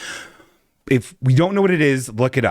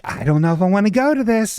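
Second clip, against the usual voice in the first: whiny doubt; 8 semitones higher than usual. Retold or imitated. Retelling her own hesitation.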